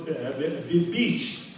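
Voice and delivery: a brief stumble before the word lands; imitated stutter. Third guy comes out after his win, stuttering. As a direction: hesitate and repeat, like a mild stutterer. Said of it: "she sees they're stuttering".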